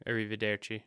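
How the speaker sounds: mock Italian accent like a clumsy American spy; Brad Pitt's Italian accent. Host imitates Brad Pitt's fake Italian accent, hammed-up. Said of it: "when Brad Pitt's doing his Italian accent".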